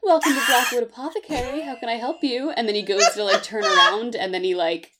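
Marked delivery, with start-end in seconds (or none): 0.0-2.5 bright, polite shopkeeper greeting; sing-song customer service welcome. Acted. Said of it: "he puts on his, like, customer service voice".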